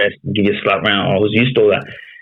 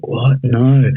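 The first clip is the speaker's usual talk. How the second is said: higher-pitched imitation of her refusal; retold disbelief; 4 semitones higher than usual. Missus hearing his plan to be dropped, retold disbelief. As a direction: imitate a partner refusing to accept it, pitch lifted. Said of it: "And then she's like".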